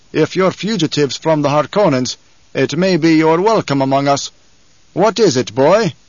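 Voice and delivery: lightly voiced commanding tribesman; tall desert leader, measured challenge. Tall man offers fugitives a welcome, measured challenge. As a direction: address the boy firmly, with measured authority.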